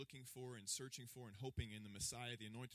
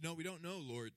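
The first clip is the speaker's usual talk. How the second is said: flustered protest; 5 semitones higher, 6 dB louder than usual. Retold or imitated. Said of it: "He says".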